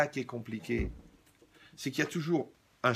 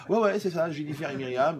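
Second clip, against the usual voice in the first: excited recognition; 4 semitones higher, 4 dB louder than usual. Real, not acted. Recalls the names delightedly.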